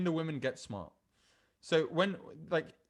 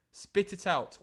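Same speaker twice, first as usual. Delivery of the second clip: sharp demand; 2 semitones higher, slower than usual. Acted. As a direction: push the demand harder this time. Second, sharper take.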